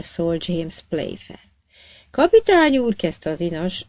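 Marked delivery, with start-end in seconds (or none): 2.1-3.0 much higher, strained appeal; torn, struggling plea. A narrator's reading. Cabin boy appealing to the captain, torn and high. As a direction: force the words out against yourself. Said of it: "erősen tusakodva önmagával".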